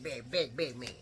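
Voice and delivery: fading big. Shown as a demonstration. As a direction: let big fall away. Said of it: "he was big".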